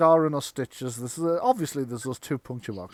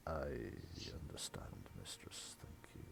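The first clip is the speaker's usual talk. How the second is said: very low, near-whispered servant; hushed deep mumble; butler whisper; 21 dB quieter than usual. Acted. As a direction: breathe it like a drained old butler.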